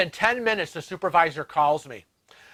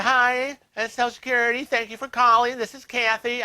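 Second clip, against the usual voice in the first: 1 bright friendly agent; 7 semitones higher than usual. Retold or imitated. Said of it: "She's like".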